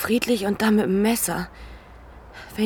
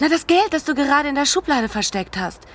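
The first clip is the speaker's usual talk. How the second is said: urgent insistence; 5 semitones higher than usual. Acted. Woman insists on hidden money.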